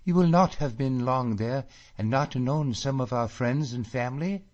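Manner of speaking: high, loud delighted questions; excited joy. A narrator's reading. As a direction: pour out her joy at home news. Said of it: "she cries".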